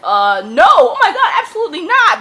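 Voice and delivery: high, loud mocking voice. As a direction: mimic her overacted refusal. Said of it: "she's like".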